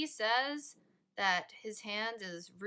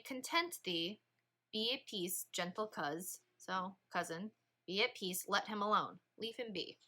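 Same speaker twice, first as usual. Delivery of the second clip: softer, calm reassurance; calm, soothing; 6 dB quieter than usual. Shown as a demonstration. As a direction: soothe an angry nephew gently. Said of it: "think about how you feel when you're content".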